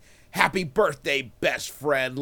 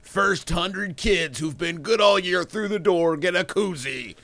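monster truck ad; 4 dB louder than usual. Pretend.

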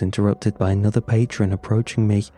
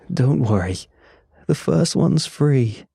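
excited yell; 4 semitones higher than usual. Acted. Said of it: "he yelled excitedly".

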